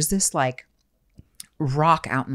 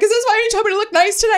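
acted tearful question; faster than usual. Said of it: "So I'm, I'm crying".

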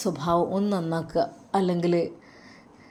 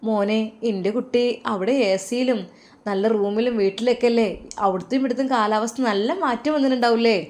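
put-on a higher, doting old mother; mother's voice; 4 semitones higher than usual. Mother asks son about the weather abroad, doting motherly voice. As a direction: ask fondly, like a mother fussing.

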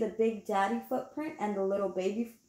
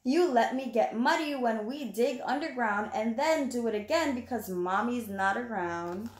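put-on reading to children. Reading the picture book aloud.

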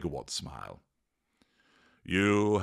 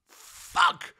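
very high, hammed-up yells; furious outburst; 6 dB louder, much slower than usual. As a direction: explode in shouted swearing. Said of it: "he declared".

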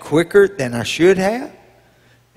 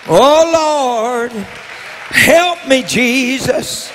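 crying out to God; 6 semitones higher, much slower than usual. Acted. Struggling believer calling on Jesus, mild pleading cry. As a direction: plead like you're at the end of your rope. Acted desperate prayer cry.

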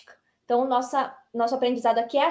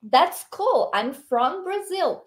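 model reading; 5 semitones higher, much slower than usual. Shown as a demonstration. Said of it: "Isso é o que nós diríamos".

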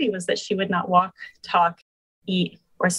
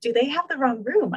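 incredulous laugh; 5 semitones higher than usual. Retold or imitated. Retelling her shock to the host, laughing incredulously. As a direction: repeat it with a laugh, higher and disbelieving. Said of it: "and being like".

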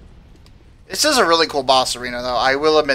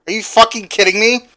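higher and louder, incredulous; real outburst at the news; outraged disbelief; 7 semitones higher, 6 dB louder than usual. Real, not acted. Player hears he must farm fifty, outraged and loud.

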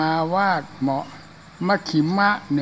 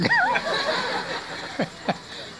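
laughter; 5 dB quieter than usual. Real, not acted. Audience laughs at punchline.

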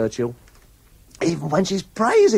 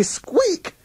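drawn-out, higher-pitched squeak; mock squeak. Host mimicking a singer's exhausting squeak, slow and high. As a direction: stretch it upward in imitation.

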